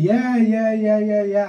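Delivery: slow drawn-out Tianjin grunting greeting; 天津腔; Tianjin dialect. Retold or imitated. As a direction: stretch the syllables lazily, Tianjin style. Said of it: "我们这天津话".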